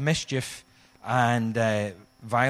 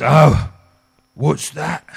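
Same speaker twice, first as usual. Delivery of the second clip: surprised oh; 4 semitones higher, 12 dB louder, much slower than usual. Retold or imitated. John voiced surprised.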